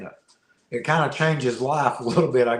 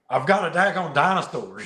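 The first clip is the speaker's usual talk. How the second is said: excited; 3 semitones higher than usual. Retold or imitated. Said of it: "I'm excited".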